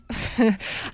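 helpless little giggle before the next topic; knowing laugh. Real, not acted. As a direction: chuckle at what's about to come up. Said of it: "Sorry, I'm just laughing".

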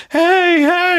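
very high, airheaded mock call; oblivious Rose imitation. Rose turning to friends from boat, high clueless call. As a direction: chirp it out cluelessly. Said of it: "As she turns around like".

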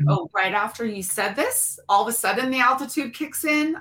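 quickening, rising mock question; incredulous retelling, pitch climbing at the end; sceptical mimicry. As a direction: parrot a flimsy excuse sceptically. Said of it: "I don't think so".

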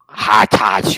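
Hartage in a fighting German accent; combative mock German. Shown as a demonstration. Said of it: "alemão tu não pode falar nunca sem parecer que tá brigando".

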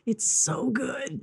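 slow, high, savoring every word; drawn-out gushing. Real, not acted. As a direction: stretch it out like you adore the show. Gushing about favorite show.

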